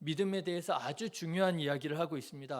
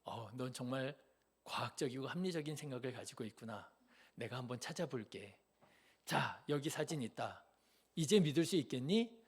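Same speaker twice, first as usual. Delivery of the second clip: softer, exaggerated sugary politeness; mock sweet reply; 4 semitones lower, 6 dB quieter than usual. Parent sarcastically humoring a doubting child, soft and sugary. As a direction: play it softly sarcastic, too nice.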